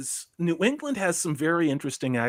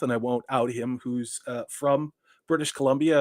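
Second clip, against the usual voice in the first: normal talking voice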